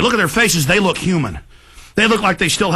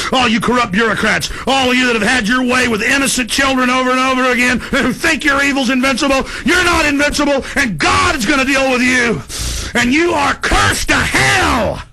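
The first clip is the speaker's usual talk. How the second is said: raised, preaching denunciation; condemning rant; 3 semitones higher than usual. Real, not acted. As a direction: curse them from the pulpit.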